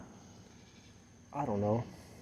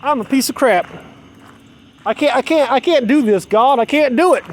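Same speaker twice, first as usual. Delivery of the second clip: rising, louder, pleading despair; mother's despair; 5 semitones higher, 4 dB louder than usual. Retold or imitated. Imitating the mother as she cries that she gives up. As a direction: wail it out as the mother giving up. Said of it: "she said".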